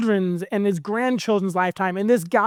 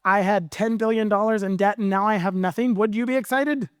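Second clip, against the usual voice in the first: higher, lively joy; excited relief; 4 semitones higher than usual. Acted. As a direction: burst out with freed excitement. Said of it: "he's like".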